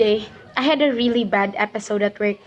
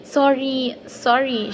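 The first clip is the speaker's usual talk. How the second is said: rushed nervous apologizing; repeated apologies; 3 semitones higher, much slower than usual. Retold or imitated. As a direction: keep saying sorry, anxious to please. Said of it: "I kept on saying".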